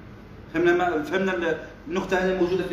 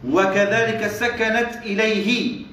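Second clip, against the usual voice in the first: slow text reading; 3 semitones higher, much slower than usual. Shown as a demonstration. Teacher reads text to class.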